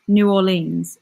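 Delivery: "New Orleans" tried as "nyoo aw-leenz"; practising pronunciation. Shown as a demonstration. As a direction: another careful attempt at "New Orleans". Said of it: "Why is that word so hard".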